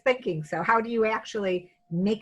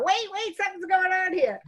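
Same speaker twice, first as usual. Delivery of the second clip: mock panic; 10 semitones higher than usual. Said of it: "I would have run out and got the mother".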